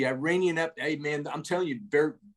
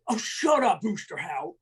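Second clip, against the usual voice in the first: mock dismissive sergeant; 7 semitones higher than usual. Sergeant brushing off retort.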